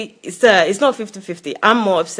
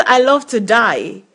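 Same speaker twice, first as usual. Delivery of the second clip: quoting him. Retold or imitated. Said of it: "Who says".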